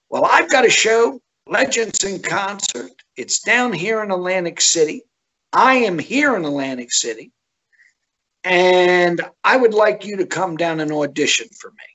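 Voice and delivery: lightly voiced boss selling his show; a hint of the eager promoter inviting him down; Jon Stewart style. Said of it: "in typical Jon Stewart style".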